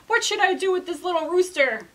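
king asks his servants what to do, exasperated. Acted. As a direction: fume at the servants.

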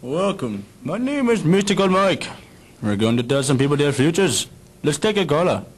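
psychic call-in host patter; host a late-night psychic call-in; smooth radio host. Acted.

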